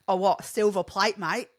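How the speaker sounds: mock French-Aussie accent, teasing; Aussie accent by a Frenchman. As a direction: imitate a Frenchman attempting broad Australian. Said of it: "a French accent ... trying to do an Aussie accent".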